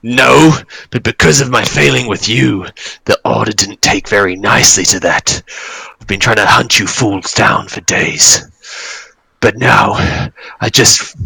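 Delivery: lightly voiced dragon villain, halting and emphatic; embittered dragon. Dragon blames the party for his failing, mildly embittered villain voice. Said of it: "And he's like".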